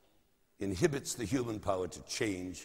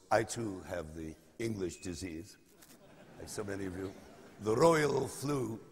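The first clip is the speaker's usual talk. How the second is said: hoarse, croaky from a cold. Real, not acted. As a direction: speak through a croaky, sick throat. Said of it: "if you'll pardon my croaky voice".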